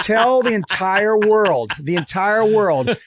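laughing. Real, not acted. Demanding it be announced.

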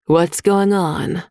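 slow, calm and level; even, not angry. A narrator's reading. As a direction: defuse the room, unhurried. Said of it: "her voice even, not angry".

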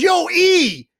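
high, loud call across the bar. Retold or imitated. Tipsy teammate calling out to the broadcaster, loud. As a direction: hail a buddy from across the room.

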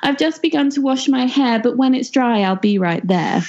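put-on very high, sugary girl voice; sweet Miss Hood. Miss Hood sweet-talking the pig, very high. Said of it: "she said".

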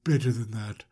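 slow, low, whispered menace; sinister tease. Retold or imitated. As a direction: drawl it like a villain. Sinister Joseph toying with brothers.

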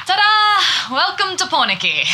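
high, loud showman's ta-da; bright triumphant reveal; excited ta-da. Acted. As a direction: present the view like a magic trick. Showing off the lookout view.

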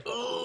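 soft, high groan of discomfort; retold groan. Retelling coming home with a sore back, soft groan. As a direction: let out a small strained "ugh". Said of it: "I was like".

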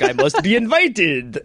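slow, laughing vampire voice; a laughing mock Count Dracula. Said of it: "applying, like, vampire rules".

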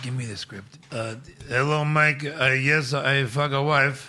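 put-on lightly done Borat-style Bulgarian accent; soft, mumbled Bulgarian accent. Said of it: "he's Borat".

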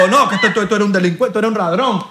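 put-on accusing Dominican accent. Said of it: "Me hice pasar por dominicano".

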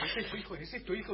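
imitating curious questioners. Father quoting voters who asked about his son, amused mimicry. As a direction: mimic people asking, through a chuckle. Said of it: "me preguntaban todos".

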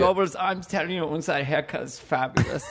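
lightly voiced, camp dictator; charming Hitler. Charming Hitler complimenting Goebbels, lightly fey voice. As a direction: gush a little, mock fey. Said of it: "it's just very fake".

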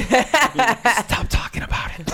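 annoyed moviegoer's hammed-up slow shout; mock yell. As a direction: bark it out slowly as an annoyed stranger. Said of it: "the guy behind me leans up and goes".

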